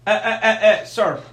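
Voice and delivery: loud, firm mock scolding; stern rebuke. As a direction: stop him in his tracks, sharply. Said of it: "We tell him".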